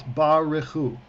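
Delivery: Baruchu carefully in three syllables, ba-re-CHU; three-syllable pronunciation. Shown as a demonstration. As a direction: sound the middle syllable of Baruchu. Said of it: "It's three syllables".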